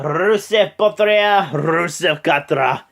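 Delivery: hammed-up slow ring entrance cry; mock entrance call. Announcing Rusev's entrance, hammed-up drawn-out call.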